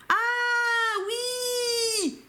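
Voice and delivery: high, drawn-out delighted cry; real excitement at getting it; sudden realization. Real, not acted. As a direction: shout out as it clicks. Suddenly gets it.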